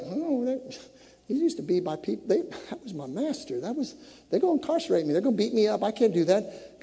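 soft, faltering acted objection; reluctant, worried protest. Preacher acting Israelites told to ask neighbors, worried protest. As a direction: back away from the order in a small voice.

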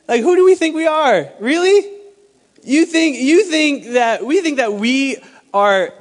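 high, loud, incredulous rebuke; indignant challenge. Acted.

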